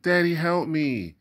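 high, loud cry for help; a child calling for his father in fear; frightened cry. Acted. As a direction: son crying out to his dad while captured. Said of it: "Nemo cried".

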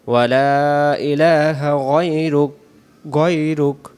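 slow chanted prayer recitation; full recitation. Shown as a demonstration. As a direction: recite the whole sana slowly. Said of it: "শুরু থেকে একটা টান দিই".

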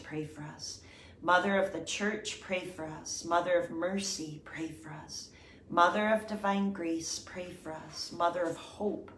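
litany prayer. Acted. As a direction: call and response, the response falling soft. Leads the litany responses.

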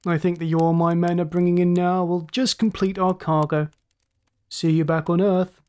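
lightly voiced chuckling raider; gloating villain. Ship's master signs off to beaten rivals, gloating villain. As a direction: sign off with a hint of mockery.

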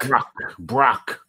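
Brock repeated with open "o" as in rock; correct Brock pronunciation. Shown as a demonstration. Host repeats guest's surname as corrected, Brock pronunciation. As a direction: practise Brock, rhyming with lock. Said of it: "the correct pronunciation".

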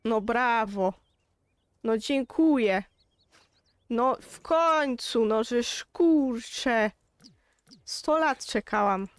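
slow drawn-out finally at last; exasperated relief. Real, not acted. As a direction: drag it out like it took forever. Foal finally goes to mother. (przeciągnięte, zniecierpliwione „no w końcu”)

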